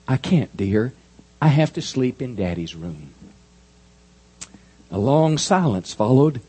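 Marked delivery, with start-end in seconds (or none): 0.1-3.1 tenderly. Acted. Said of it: "said tenderly".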